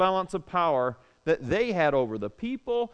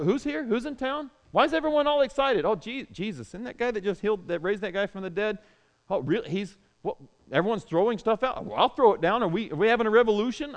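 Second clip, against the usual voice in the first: curious bystander; 2 semitones higher, faster than usual. Acted. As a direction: chatter like a curious townsman who just heard the news. Curious bystander swept along by crowd.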